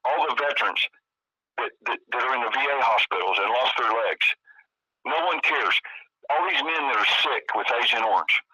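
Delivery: pleading for the forgotten veterans, voice lifting; real emotion, pitch rising with feeling; emotional. Real, not acted. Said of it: "sorry if I get a little bit, emotional about it".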